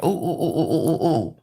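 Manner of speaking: soft string of quavering oohs; imitated jumpiness. Storyteller mimics the antsy teacher coming into class, jittery. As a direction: mimic her jitters in wobbly little oohs. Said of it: "was just jumping".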